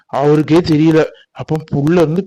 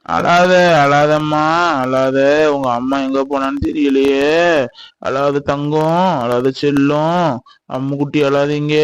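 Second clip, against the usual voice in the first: slow, drawn-out crooning hush; tender soothing; 3 semitones lower, slower than usual. Acted. Comforting a child whose mother is gone, tenderly soothing. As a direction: croon low to calm a crying child.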